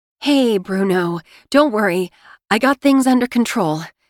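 ridiculously shaky, trembling, wobbling voice. Reading a story where the narrator leaves a friend a phone message: ridiculously shaky voice. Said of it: "My voice is so ridiculously shaky as I say".

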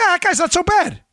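high-pitched, grudging, won-over voice.

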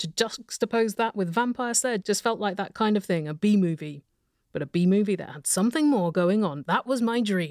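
ordinary talk

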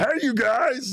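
very high, cartoony voice. Giving the others a voice for Jesse Junior: cartoony Jesse Junior voice. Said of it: "I think very cartoony".

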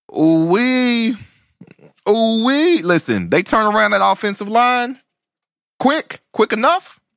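very high, excited hollering exclamation.

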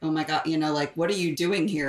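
ordinary talk

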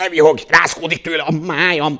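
loud, snarling badger-like growl. A badger snaps at a fox who keeps chuckling, growling. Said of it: "mordult rá a borz".

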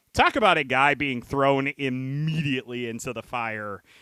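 ordinary delivery

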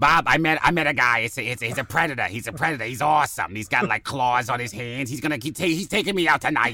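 put-on cartoon girl voice. Improvising a silly bit in a voice a listener likens to Bob's Burgers, Bob's Burgers girl voice. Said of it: "It sounds like that big girl on Bob's Burgers".

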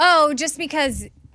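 high-pitched yelling. Explaining the show date to another speaker: yelling. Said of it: "Why are you yelling still".

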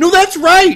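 high-pitched, loud, excited squeal. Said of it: "And he says".

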